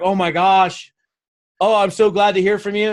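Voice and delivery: gushing a little, as an imitation; mock delighted reply. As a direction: act out a thrilled friend texting back. Imagined delighted reply to a text.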